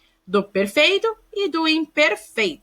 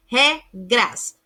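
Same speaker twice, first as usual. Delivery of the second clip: regras split as "re, gras"; syllable by syllable. Shown as a demonstration. Teacher showing pupils a same-syllable cluster, syllable by syllable. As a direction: say regras in two separate syllables.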